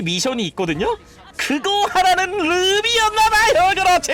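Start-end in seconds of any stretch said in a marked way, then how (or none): 1.4-4.1 high, loud hype call; excited shout. Real, not acted. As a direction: cheer it on. Hype during kill.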